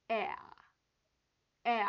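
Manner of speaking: tight, tense e vowel. Shown as a demonstration. Teacher demonstrating a tense e to students. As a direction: put tension into the e. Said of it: "긴장을 주고요".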